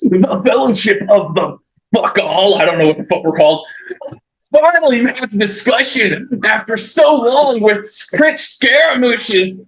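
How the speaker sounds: a hint of a chill beach bro; surfer dude voice. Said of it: "I'm doing the surfer dude voice".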